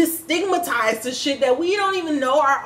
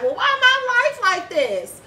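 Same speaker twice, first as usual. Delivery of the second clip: mock whiny complaint; 10 semitones higher than usual. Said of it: "being like".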